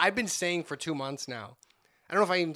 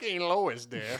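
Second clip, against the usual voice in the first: cartoon New England husband voice; Family Guy impression; much slower than usual. Host likening stranger to Family Guy, cartoon New England voice. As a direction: imitate the cartoon dad calling his wife. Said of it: "felt like he was gonna go like".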